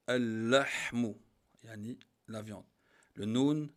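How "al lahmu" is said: al-lahmu slow, the l doubled and long; slow demo word. Shown as a demonstration. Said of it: "le lam". (al-lahmu, lentement, lam doublé)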